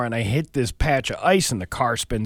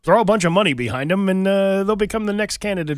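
Chris Signoli; 3 semitones higher than usual. Acted. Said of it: "Chris Signoli is like".

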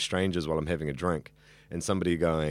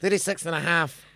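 higher, teasing self-correction; playful correction; 10 semitones higher, 3 dB louder than usual. Real, not acted. Guest playfully correcting his age for the interviewer, teasing lift. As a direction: tack on the half like a joke on yourself.

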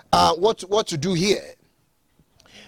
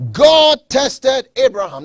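higher and louder, punching God; preached emphasis; 3 semitones higher, 7 dB louder than usual. Acted. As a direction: ring it out from the pulpit. Preacher stresses key point.

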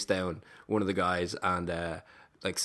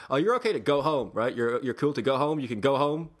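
higher, politely insistent; pushy but nice; 4 semitones higher than usual. Retold or imitated. Friend easing the woman off home, nicely pushy. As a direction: imitate a polite nudge out the door. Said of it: "kind of pushed it while being nice".

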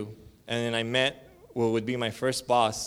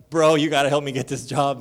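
pleading; 3 semitones higher, 7 dB louder than usual. Retold or imitated. Pleading with coworker.

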